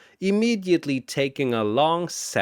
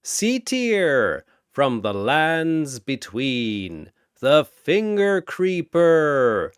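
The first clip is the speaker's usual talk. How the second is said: booming announcer. Acted. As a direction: boom it across the arena. Announcer introduces next fighter.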